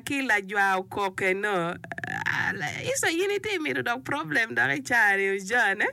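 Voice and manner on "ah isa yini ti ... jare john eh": playful shout. Real, not acted. Playful on-air rant about song.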